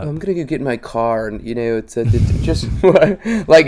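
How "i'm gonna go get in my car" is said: mock no-accent delivery, brisk; quick, mock-nerdy neutral American accent; accentless nerd voice. Comic mocking the worst accent, nerdy no accent. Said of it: "The worst accent is no accent at all".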